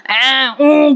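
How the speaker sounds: a half-hearted imitation of a ghostly wail; lightly imitated horror-film shriek; mock Manjulika scream. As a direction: mimic the witch's cry without real force. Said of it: "मोठ्या मोठ्याने मंजुलिकेसारखी ओरडतीये".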